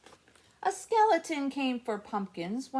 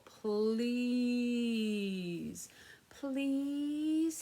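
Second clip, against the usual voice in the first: polite please. Shown as a demonstration. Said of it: "so everybody do this".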